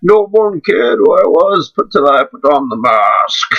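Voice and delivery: slow, lightly voiced Bane line; a hint of the menacing masked villain, drawn out; mock Bane impression, slow; Bane quote. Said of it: "I can't do a good Bane voice".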